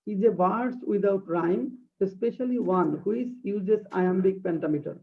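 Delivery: very slow, deliberate reading of a definition; slow dictation. Shown as a demonstration. Teacher reading a definition aloud to her class, slow dictation. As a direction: read it word by word for students to copy. Reads English definition slowly.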